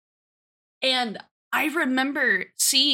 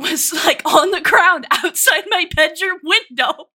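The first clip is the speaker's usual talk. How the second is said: normal talking voice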